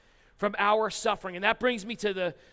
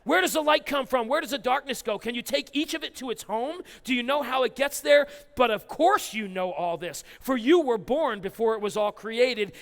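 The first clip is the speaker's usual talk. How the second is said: sarcastic God. Acted. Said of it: "God talks like that".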